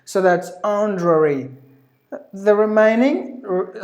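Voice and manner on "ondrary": HONORARY squeezed short as "on-druh-ree"; British pronunciation. Shown as a demonstration. Teacher modelling honorary for learners, British pronunciation. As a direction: say HONORARY the British way, middle vowel dropped. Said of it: "otherwise it's British honorary".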